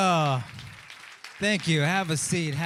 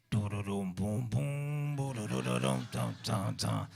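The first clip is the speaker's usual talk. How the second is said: low hummed bass line sounds; vocal bass line demo; 11 semitones lower, 8 dB quieter than usual. Shown as a demonstration. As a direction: sing a deep bass line: do-do-dum, boom. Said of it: "you're gonna do the bass line".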